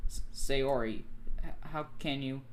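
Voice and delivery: mildly acted choked-up hesitation. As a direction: stumble over the words as if choking up. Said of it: "Monica chokes up".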